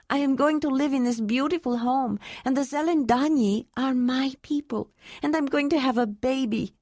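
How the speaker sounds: gushing love through happy tears, slowing at the end; Ayla overjoyed. Acted. Narrator voices Ayla, tearful joy.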